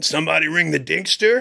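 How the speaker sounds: ringtone character. Retold or imitated. Text arrives as he walks in, ringtone character. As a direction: chime in like a silly text alert. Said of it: "I get a text".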